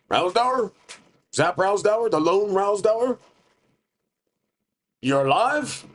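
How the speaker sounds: high, disbelieving rising questions; can't believe he's alive; amazed recognition. Acted. Mike Pepper recognizing his lost friend, high amazed disbelief.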